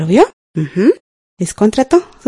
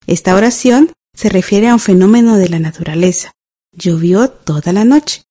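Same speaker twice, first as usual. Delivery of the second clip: ordinary delivery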